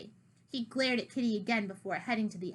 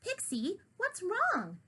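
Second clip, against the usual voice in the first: alarmed call; 10 semitones higher, slower than usual. Acted. Kitty calls in alarm.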